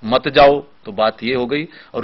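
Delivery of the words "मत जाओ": "मत जाओ" as one unit after a break; joined after the pause. Shown as a demonstration. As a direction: keep मत tied to जाओ. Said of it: "और जरा सा pause". (विराम के बाद "मत जाओ" एक साथ)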